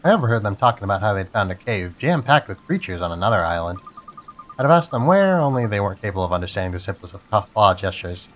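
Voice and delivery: lightly voiced chatty crab. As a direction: gossip like a friendly crab. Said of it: "this is my crab voice".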